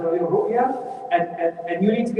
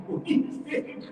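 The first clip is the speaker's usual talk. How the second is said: mock innocent question; 9 semitones higher, 5 dB quieter than usual. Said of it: "they say".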